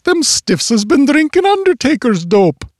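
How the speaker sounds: high, hammed-up old-timer voice; a deliberately bad yokel put-on; bad old-timer accent. Bunko gasping at dead men, hammed-up bad accent. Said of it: "that bad accent".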